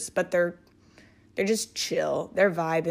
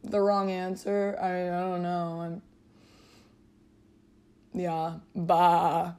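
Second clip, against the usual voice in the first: dumb confused sheep; slower than usual. Pretend. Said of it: "that's what a sheep would sound like".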